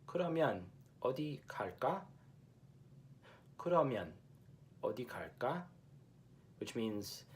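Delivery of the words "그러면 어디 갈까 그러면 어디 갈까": crisp Seoul Korean, quick; plain Seoul dialect; standard Seoul Korean. Shown as a demonstration. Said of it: "In 서울말".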